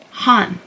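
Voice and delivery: "Han" with an open ah, closing on N; demonstrated syllable. Shown as a demonstration. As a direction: sound out "Han" as one separate syllable. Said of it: "So it makes".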